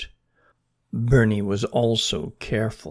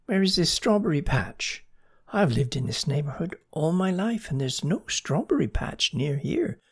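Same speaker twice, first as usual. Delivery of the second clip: suspicious; 5 semitones higher than usual. Acted. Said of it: "said Mona suspiciously".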